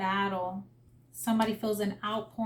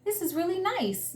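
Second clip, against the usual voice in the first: put-on much higher, childlike voice of wonder; little kid; 9 semitones higher than usual. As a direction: imitate an awed little kid, high-pitched. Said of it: "this little kid was just like".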